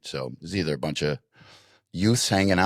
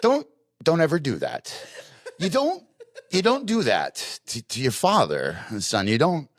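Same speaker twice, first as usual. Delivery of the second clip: high, laughing fatherly scold; laughing mock-stern dad; 9 semitones higher than usual. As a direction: scold the kid while cracking up. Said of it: "I'm like".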